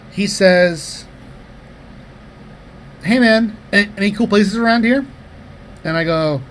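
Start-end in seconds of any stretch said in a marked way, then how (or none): 3.0-5.1 lightly voiced stranger, higher and louder; chatty stranger. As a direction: imitate a guy calling over casually. Acted stranger approaching in the park.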